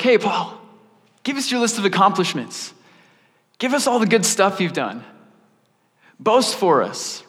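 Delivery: lightly acted, insistent urging; pleading Corinthians. Corinthians begging Paul to boast, with mock insistence. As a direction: imitate a congregation pressing for a boast, building in force. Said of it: "The Corinthians are like".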